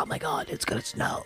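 panicky local voice. Retold or imitated.

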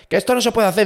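imitating the clerk, pitched well up; high mock official. Clerk objecting to the photos, mimicked in a high voice. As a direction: whine it like the fussy clerk.

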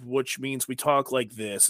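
slow, flat and condescending. Shown as a demonstration. Co-host demoing the condescending octave to listeners, slow and flat. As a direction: talk down to them, slowly. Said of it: "We have a condescending octave".

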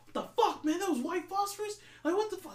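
high-pitched, alarmed mock outcry; panicked soldier. Retold soldier reacting in horror to the phosphorus, high panicked yelp. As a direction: squeal it like a horrified grunt.

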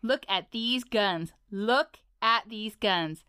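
a lightly voiced, boastful icy king; tough Ice King. Ice King bragging about his arms, a light swagger. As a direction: show off his muscles, swaggering.

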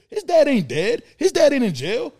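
indignant outburst on repeat; heated. Real, not acted. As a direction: hammer the point home loudly. Heated rant about absent dads.

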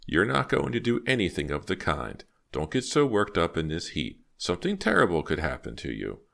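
a hint of a scolding old lady; lightly voiced firm old woman. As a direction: firmly talk down an angry neighbor. Old woman warns angry neighbor.

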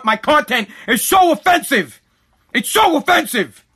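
mock complaint, pitch lifting on the repeat; mocking the offended. Banned creator imitating offended staff, mocking. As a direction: throw their objection back with scorn. Mocks those offended by his content.

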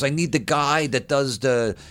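slow, groping for the word, lightly voiced; fumbling Dice. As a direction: search for the word like a confused star. Imitating Dice groping for words.

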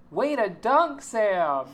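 coach's cheer. Retold or imitated. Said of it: "And the coach goes".

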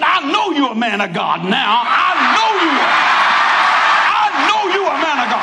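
a husband won over, half shouting; hammed-up grateful husband; moved husband. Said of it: "He said".

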